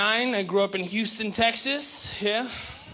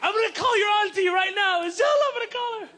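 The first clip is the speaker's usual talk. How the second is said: proud Arab mom; 5 semitones higher than usual. Retold or imitated. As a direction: gush over her baby son. Proud Arab mom imagines doctor son.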